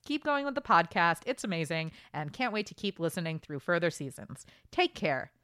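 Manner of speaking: quick, bright letter read; reading a fan's email to the podcast, fast and lively; reading an email aloud. Shown as a demonstration. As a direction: read the fan mail out briskly. Reads the listener email.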